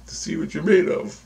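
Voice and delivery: high, lilting voice for dream figures; dream guides' voice. Retold or imitated. Dream figures explaining the test to the dreamer, high put-on voice. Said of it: "they go".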